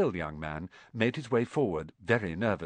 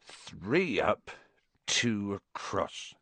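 mutter; 3 semitones lower, 6 dB quieter, much slower than usual. A narrator's reading. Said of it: "he muttered".

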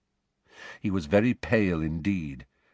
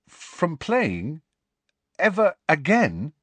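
higher, stunned, distant voice; strangely distant; 8 semitones higher, slower than usual. A narrator's reading. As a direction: say it as if far away from yourself. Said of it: "his voice sounded strangely distant".

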